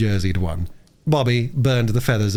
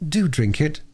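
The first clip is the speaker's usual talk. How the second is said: put-on mildly gentle, higher girl's voice; gently coaxing; 6 semitones higher, slower than usual. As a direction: coax him kindly. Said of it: "said Bobby gently".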